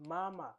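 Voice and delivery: MAMA with a long, level high first MA. Shown as a demonstration. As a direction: Mandarin first tone on MAMA, second syllable short. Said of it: "we are using the first tone".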